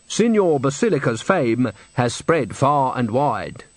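slow, prim pronouncement. Acted. Manager praises Signor Basilica's fame, slow and prim. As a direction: announce it with measured self-importance. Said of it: "said the manager primly".

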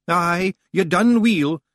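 slow, high Scottish pixie voice; Rob Anybody. Acted. Rob Anybody praising Roland, slow high Scots brogue. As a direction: praise the boy in a small Scots voice.

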